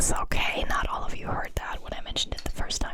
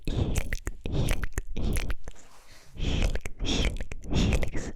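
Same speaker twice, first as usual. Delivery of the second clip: inaudible whisper. Shown as a demonstration. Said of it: "the word helix in an inaudible way".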